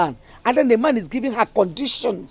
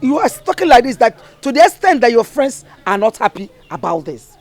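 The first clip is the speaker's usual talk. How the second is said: louder, insistent mother's reproach; stern scolding; 3 semitones higher, 5 dB louder than usual. Acted. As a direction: scold her daughter, voice raised.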